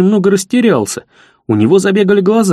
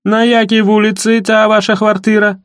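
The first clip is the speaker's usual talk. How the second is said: suspicious village tough; 5 semitones higher than usual. Acted. Сиплый suspicious interrogation.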